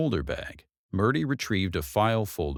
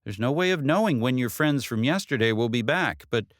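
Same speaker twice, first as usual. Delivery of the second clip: lightly voiced detective, grave warning; 7 semitones higher than usual. Detective warning Katie the killers will return, lightly voiced. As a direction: warn her to be careful.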